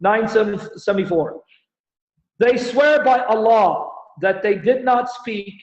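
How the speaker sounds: slow, careful reading of the verse; slow deliberate scripture reading; read slowly. Shown as a demonstration. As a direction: take each word slowly so they follow. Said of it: "I'm gonna read it slowly".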